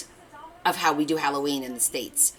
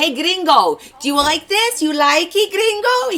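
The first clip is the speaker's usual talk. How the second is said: very high, loud mock-teasing calls; chef teasing; 12 semitones higher, 8 dB louder than usual. The chef teasing Kevin as gringo, very high and loud.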